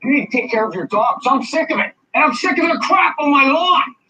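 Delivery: extremely agitated, furious, very high angry screaming. A man races out of his house into the street, screaming angrily. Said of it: "He started screaming about the dogs".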